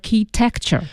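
"architecture" with a hard k, AR-kee-tek-cher; prefix "arch" with k sound. Shown as a demonstration. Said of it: "读成archy，arc，archy".

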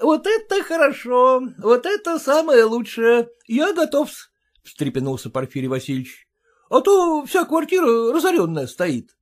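put-on high, eager, fawning young man; a clerk eager to please his father-in-law; eager son-in-law. Son-in-law eagerly agreeing to father-in-law, voiced high.

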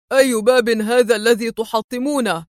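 indignant homeowner's character voice; angry. A narrator's reading. Householder confronting searchers breaking his door, angry. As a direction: protest angrily in an altered voice. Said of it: "وهو يقول في غضب".

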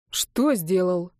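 slow, displeased question; slow, annoyed reply to her accusation. Acted. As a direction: grumble it back, annoyed. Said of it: "недовольно спросил юноша".

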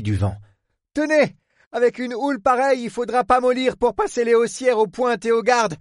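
high, pressing instructions; urgent harbour superintendent. Acted. Port man briefs his helper on mooring, urgent.

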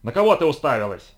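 raspy enraged snarl, loud; hoarse furious growl. Acted. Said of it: "хрипло рычал взбешённый сумеречник".

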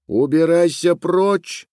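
put-on girl shouting at a boy again. A narrator's reading. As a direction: bark it out at him. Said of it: "крикнула ещё раз".

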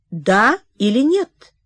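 slow, pressing "Да или нет?"; slow insistent repeat. Acted. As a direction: press for the answer slowly. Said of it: "повторил он". (медленно, настойчиво «Да или нет?»)

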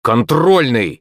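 ordinary delivery, nothing marked

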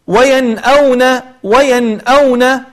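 وينأون with the nun sounded clearly before the hamza; slow Quranic recitation of وينأون; clear izhar on the nun. Shown as a demonstration. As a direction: say وينأون slowly, nun held distinct then glottal stop. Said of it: "نون ساكنة أتى بعدها همزة".

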